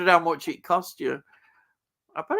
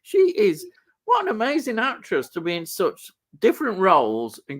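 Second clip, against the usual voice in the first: amazed; 5 semitones higher than usual. Retold or imitated. Retold amazed thought about actress.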